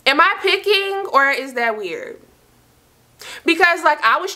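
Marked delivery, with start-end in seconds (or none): 0.1-2.2 high, squeaky disbelief at herself; incredulous question. Real, not acted. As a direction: pitch it way up like you can't believe it. Asking viewers if she's petty.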